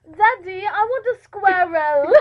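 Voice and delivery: put-on slow, drawn-out demand to daddy in English accent; demanding child impression. Host mimicking a child asking daddy, slow demanding English accent.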